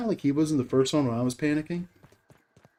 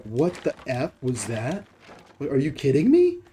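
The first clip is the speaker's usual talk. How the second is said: incredulous. Retold or imitated. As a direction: act out stunned disbelief. Acts out own disbelief at whale.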